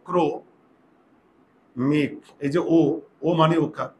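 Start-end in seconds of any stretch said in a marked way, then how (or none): 0.1-2.1 ক্রো, মিক split and said slowly; teacher splitting ক্রমিক into syllables. Shown as a demonstration. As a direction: break ক্রমিক into kro and mik. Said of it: "ইংরেজি দিয়ে করো".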